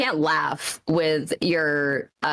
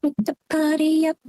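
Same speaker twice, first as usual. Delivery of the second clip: party hype call; 8 semitones higher than usual. Pretend.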